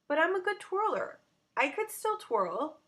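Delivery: high, loud desperate plea; pleading child. Acted. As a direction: beg to keep her place. Pleading to stay in group.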